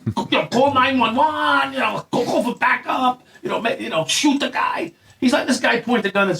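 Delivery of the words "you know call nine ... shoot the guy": insistent, raised-pitch plea for action; urgent urging. Retold or imitated. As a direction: urge your partner to act, pitched up. Acting out what partner should say.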